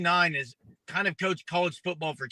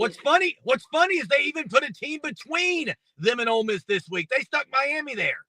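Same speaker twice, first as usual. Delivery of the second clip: raised, worked-up disbelief; excited; 6 semitones higher than usual. Real, not acted. Caller debate, heated disbelief.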